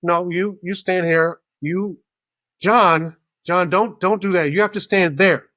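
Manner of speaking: exasperated line-marshal voice; bossy orders. Retold or imitated. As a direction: retell someone firmly putting people in their place. Retold bossy orders at boarding.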